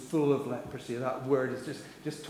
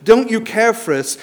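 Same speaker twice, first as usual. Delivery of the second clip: high, loud frantic plea; panicked disciples; 6 semitones higher, 5 dB louder than usual. Acted. Disciples shouting at sleeping Jesus in panic. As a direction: cry out like men about to drown.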